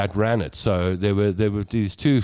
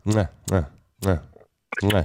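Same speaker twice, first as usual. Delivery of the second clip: attempted front click; 5 semitones lower than usual. Shown as a demonstration. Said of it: "The one that gets me is the front".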